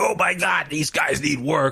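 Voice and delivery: gentle, held-back yell. Imagining how a backstage fit might have sounded: imitating Vince McMahon yelling. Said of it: "Vince yelling, screaming, like".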